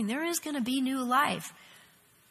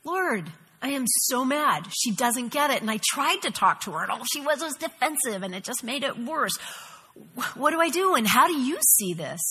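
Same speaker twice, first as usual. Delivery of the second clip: retold frustrated prayer; 3 dB louder than usual. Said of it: "I've done this".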